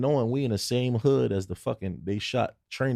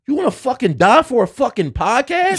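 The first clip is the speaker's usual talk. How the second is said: high, louder exasperated scold; scolding cop; 11 semitones higher, 8 dB louder than usual. Retold or imitated. Cop scolding visitors in a dangerous hood. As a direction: scold him like a fed-up cop. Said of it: "He said".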